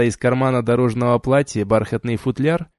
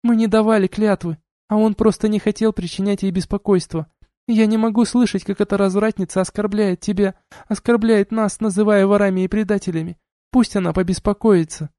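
indignant rant; 9 semitones higher than usual. A narrator's reading. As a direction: pour out the outrage. Taisha rages at duchess.

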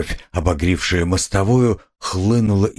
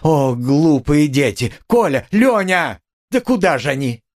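frantic fear; alarmed cry; 7 semitones higher than usual. A narrator's reading. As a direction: call after the fleeing children. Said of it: "вскрикнула она вдруг в испуге".

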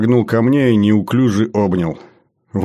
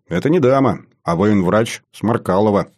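mock-severe correction; playfully stern, starting raised; exaggerated sternness. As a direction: correct him with put-on military strictness. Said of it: "утрированно, суровым тоном произнёс я".

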